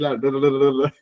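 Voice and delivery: "la R" with the R trilled at length; dragged rolled R. Shown as a demonstration. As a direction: roll the R in "la R" as a drawn-out trill. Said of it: "las arrastran muy fuerte".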